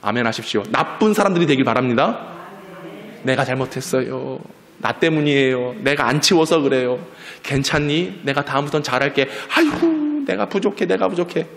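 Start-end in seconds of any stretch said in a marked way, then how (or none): 3.2-11.5 humble apology. Acted. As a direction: model owning the fault tenderly. Models humble family apologies.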